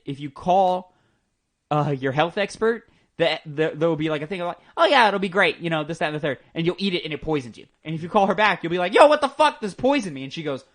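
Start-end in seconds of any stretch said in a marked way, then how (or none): 4.8-5.6 louder, higher, breezy approval; mock-cheerful go-ahead; breezy reassurance. Acting out the health expert. 8.9-10.2 loud, high-pitched mock outrage; hammed-up shocked protest; outraged complaint. Acted angry call back to expert.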